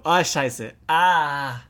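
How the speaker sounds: about to sneeze; sneezing. Real, not acted. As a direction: sneeze building up, held in. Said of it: "ich muss niesen".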